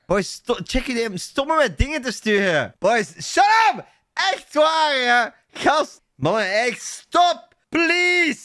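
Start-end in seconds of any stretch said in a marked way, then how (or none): 1.2-8.4 high-pitched exasperated outcry; exasperated pleading. Real, not acted. Streamer begs chat to stop messaging him, exasperated pleading. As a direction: beg them to stop, voice pitched way up.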